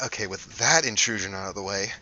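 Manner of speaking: dry aside. Acted. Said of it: "And she's like".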